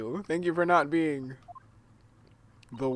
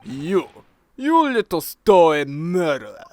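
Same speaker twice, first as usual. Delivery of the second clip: shouting insult, much louder; angry shout; 12 dB louder than usual. Acted. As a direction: bark it out furiously. Insulting the sailor.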